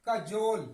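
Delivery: loud, firm कजोल, stretched on 'jole'; correct pronunciation. Shown as a demonstration. Teacher repeats the right reading for students, correct pronunciation. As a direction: say कजोल with a short first vowel. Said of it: "इसका सही उच्चारण क्या होगा".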